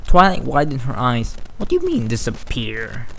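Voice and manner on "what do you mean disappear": shocked. Acted. Shocked question to friend.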